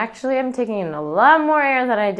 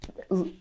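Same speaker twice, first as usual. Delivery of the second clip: demo air release; 2 semitones lower, 8 dB quieter than usual. Shown as a demonstration. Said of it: "release that little collapse".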